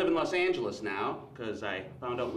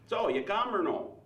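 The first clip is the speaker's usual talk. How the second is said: slow, high Wisconsin "or no" drawl; hammed-up Wisconsin lover asking plainly; broad Wisconsin accent, dragged out; 6 semitones higher, slower than usual. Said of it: "with a Wisconsin accent".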